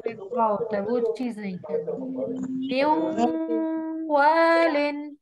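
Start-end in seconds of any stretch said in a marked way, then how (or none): 2.8-5.2 "मिन वालिन" very slow, nūn merged into वा with a nasal hold; ghunna demo. Shown as a demonstration. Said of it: "नून की आवाज को गुन्ना करना है". (धीमे से मिन वालिन गुन्ने के साथ)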